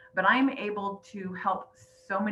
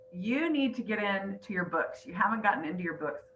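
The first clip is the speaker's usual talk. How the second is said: emotional, holding back tears; choking up; 3 dB quieter than usual. Real, not acted. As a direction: quote it softly while fighting tears. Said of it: "Sorry, I try not to get emotional".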